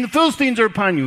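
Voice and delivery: loud, high cry of alarm; cried out. Retold or imitated. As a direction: call out the warning. Delilah alarm third time.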